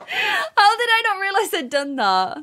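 laughing through the question. Real, not acted. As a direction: giggle at your own mistake. Laughing at own mistake.

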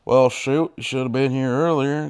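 put-on southern accent for a British character. Voicing the guy with the pigs, southern accent. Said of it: "southern accent instead of a British one".

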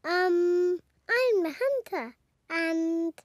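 put-on hesitant child rehearsing a line; shy. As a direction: say the line shyly, with halting gaps. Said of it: "Pedro is a bit shy".

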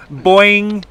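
high, loud sound effect; loud boing. Acted. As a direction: belt out a cartoon boing. Sound effect while springing.

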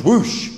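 whooshing like an opened bottle; imitated fizz whoosh. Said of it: "when you open, it goes".

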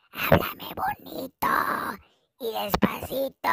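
breathy whisper, squeaking up at the end; fake voiceless whisper. To Licha, begging sweet talk in a faked whisper. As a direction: play the lost voice for sympathy. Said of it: "no puedo hablar".

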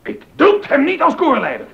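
high, heated defiance; angry refusal, pitched high; furious outburst. Acted. Bach furious at rector.

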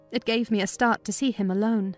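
ordinary delivery

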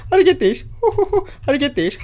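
high-pitched chant broken by giggles; giddy, high taunting; teasing giggle. Pretend. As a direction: chant it playfully between bursts of laughter. Chanting while teasing the figure.

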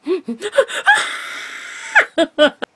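high-pitched cackling laugh; high laughing fit. Real, not acted. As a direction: burst into a squealing laugh. Big burst of laughter.

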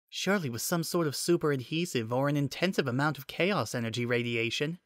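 lightly voiced inner thought of Nicole; Nicole thinking.

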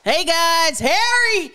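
high-pitched imitated vlogger greeting; excited internet voice. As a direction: burst in squeaky and hyped, imitating an online host. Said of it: "your excited, you're on the internet voice".

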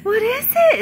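high, loud cooing to the dog. Real, not acted. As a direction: coo at the mother dog. Coos at mother dog.

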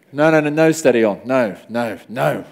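loud, hammed-up protest, no no no; mock panic. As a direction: pretend to fend off panic over the cricket. Mock panic over cricket collapse.

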